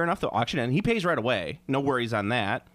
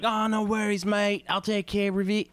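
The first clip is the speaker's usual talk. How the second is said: a light, higher Aussie "no worries, mate"; mock Australian buyer; 8 semitones higher than usual. Buyer replying to the seller, a mock Australian accent. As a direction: play the breezy Aussie bidder. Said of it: "And he's like".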